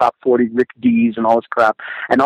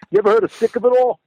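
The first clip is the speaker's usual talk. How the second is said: eager mock question; 9 semitones higher, faster than usual. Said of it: "We're at, like, a business conference".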